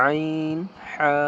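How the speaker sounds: আইন said with a squeezed throat, then হা. Shown as a demonstration. Teacher showing how to squeeze the throat, pressed. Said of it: "গলা চিপে".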